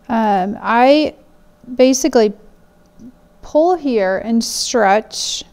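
talking around a pin held in the lips; pin in mouth. Real, not acted. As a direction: speak with a pin between your lips. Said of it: "talk with a pin in my mouth".

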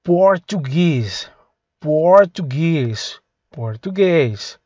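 very slow, drawn-out "Português"; slow repeated word. Shown as a demonstration. Teacher repeating "Português" slowly for students. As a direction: stretch out "Português" slowly each time. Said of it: "olha a pronúncia aqui".

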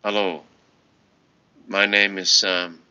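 slow, even robot voice. Shown as a demonstration. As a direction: recite it like a machine. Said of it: "in a very automated, robotic voice".

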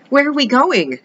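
put-on high girlish question; cartoon princess. A narrator's reading. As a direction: ask like a small princess. Princess asks.

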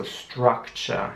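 "Structure" with the U said like German A, "strak-cher". Shown as a demonstration. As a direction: open the U of "Structure" to an A. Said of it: "das U wird wie ein A".

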